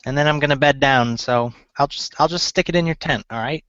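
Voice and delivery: lightly voiced gnome, pitch lifting in places; a hint of a high gnome woman. Gnome seamstress promising to deliver the gloves, light gnome voice. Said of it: "let me get my gnome voice on".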